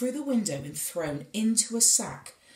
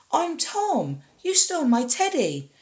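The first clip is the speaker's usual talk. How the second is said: put-on higher, bold little boy accusing; boy's voice; 7 semitones higher, 4 dB louder than usual. A narrator's reading. Tom accuses the giant of stealing his teddy, boldly. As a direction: stand up to the giant like a brave child.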